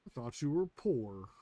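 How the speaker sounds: drawn-out mocking taunt; Damon Darling catchphrase. Streamer mimics a prankster's catchphrase, mocking drawl. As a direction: stretch it out like a prankster's punchline. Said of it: "the way he says it".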